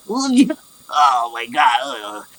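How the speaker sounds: drawn-out wail fading into a groan; weepy onion-cutting goblin. Acted. Goblin cook crying over onions, slow wail. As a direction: sob it out through the onion tears. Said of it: "sneezes 'cause he's crying from cutting up the onions".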